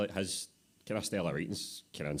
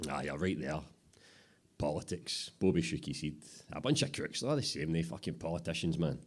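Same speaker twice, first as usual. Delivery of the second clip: gruff boss. Acted. Boss Bobby dismissing politics.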